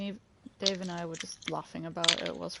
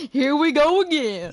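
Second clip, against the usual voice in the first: loud exasperated cry; 8 semitones higher, 9 dB louder than usual. Real, not acted. Laughing exasperated exclamation.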